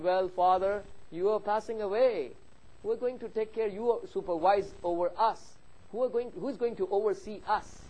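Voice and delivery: a hint of worried kids appealing to their father; pleading children.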